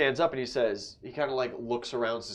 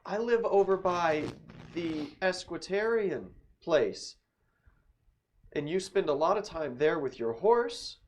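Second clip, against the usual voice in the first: lady insisting; 7 semitones higher than usual. Acted.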